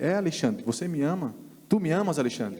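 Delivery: insisting question. Retold or imitated. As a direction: push the question home with rising insistence.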